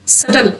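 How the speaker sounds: सटल with silent b, no b sound; सटल spoken without the b. Shown as a demonstration. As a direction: say सटल as "suttle", b dropped. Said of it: "इसको सबटल नहीं पढ़ना".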